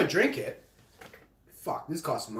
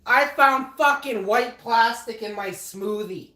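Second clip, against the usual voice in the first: angry; 7 semitones higher, 6 dB louder, slower than usual. Real, not acted. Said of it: "I am so mad right now".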